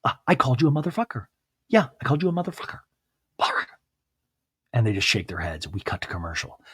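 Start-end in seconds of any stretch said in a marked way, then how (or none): 0.0-2.8 fast defiant. Retold or imitated. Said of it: "And she's like".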